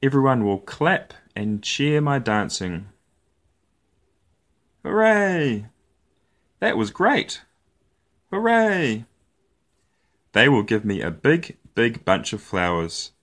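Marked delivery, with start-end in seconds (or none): 4.8-9.0 high, excited cheering audience; cheering crowd. Acted. Audience cheers after the show.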